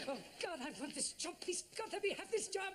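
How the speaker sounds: pitched high and climbing, laughing with need; desperate prayer. Acted. Begging God for the job.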